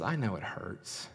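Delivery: soft, consoling voice; hushed compassion, voicing God's comfort; tender reassurance. Voices God consoling the hurting.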